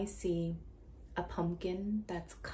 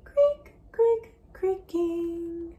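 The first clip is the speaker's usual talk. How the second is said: much higher, loud, slow creak, creak; creak demo; 12 semitones higher, 13 dB louder, much slower than usual. Shown as a demonstration. Teacher showing a child the creak sound. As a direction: squeal it out like a door hinge. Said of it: "Can you make that sound?".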